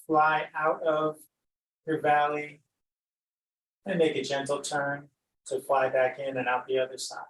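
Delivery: unhurried meditation guide with long pauses; guided meditation. Acted. Teacher guiding listeners to glide over an imagined valley, unhurried meditation voice. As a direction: lead them gently through the imagery, leaving space between phrases.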